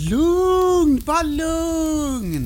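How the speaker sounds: a high, hurried hush-hush; a fussy attempt to calm him down. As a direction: wave off the panic. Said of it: "avvärjande fram en knubbig hand".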